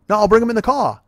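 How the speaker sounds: put-on Australian accent.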